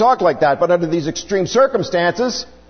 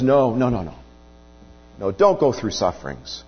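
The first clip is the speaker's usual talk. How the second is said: rebuking; 6 semitones lower, 3 dB quieter, faster than usual. Retold or imitated. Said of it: "Peter rebukes Jesus".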